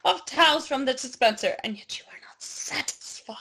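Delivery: hushed, hammed-up whisper; dramatic whisper. Narrating towel greed to co-host, dramatic whisper. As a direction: drop into a theatrical whisper.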